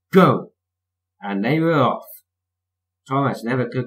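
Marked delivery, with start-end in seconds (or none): 0.1-0.5 loud starting shout. A narrator's reading. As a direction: call the start of the race. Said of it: "The station master said".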